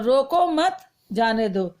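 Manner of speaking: रोको मत together, break, then जाने दो; pause after मत. Shown as a demonstration. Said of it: "दो अलग-अलग तरीकों से बोला गया है".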